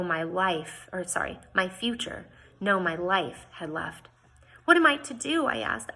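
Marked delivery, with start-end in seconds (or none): 4.6-5.4 high, louder, anguished cry; desperate plea. Acted. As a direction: Jane asks Mister Swan in despair, high desperate cry. Jane desperate after losing fiancé.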